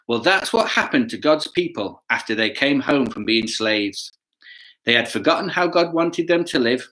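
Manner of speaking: put-on lively storybook narration to kids; reading to children. A narrator's reading. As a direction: tell it like a picture book for children.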